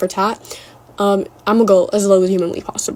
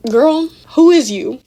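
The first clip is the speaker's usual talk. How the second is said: louder, higher, drawn-out challenge; acted sassy comeback; 5 semitones higher, 5 dB louder, slower than usual. Calling after a friend who walked away, slow sassy challenge. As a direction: stretch it out with incredulous sass.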